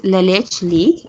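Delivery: "Leche" said with a short e, like "letch"; slow, careful "La Leche League", LETCH in the middle; correct pronunciation of Leche. Shown as a demonstration. Guest correcting the host on the organisation's name, careful pronunciation. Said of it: "uh, pronounced as La".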